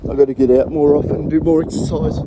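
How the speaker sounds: puffing hard between words; breathless after the steep climb; out of breath. Real, not acted. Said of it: "I'm huffing and puffing like a billy goat".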